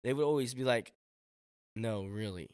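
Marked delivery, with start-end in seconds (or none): 1.8-2.5 lower, mildly disbelieving; doubting reply. Retold or imitated. People doubting his big dream, low mild disbelief. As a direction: imitate someone not taking the answer seriously. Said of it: "people would just laugh".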